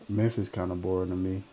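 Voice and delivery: ordinary talk, nothing marked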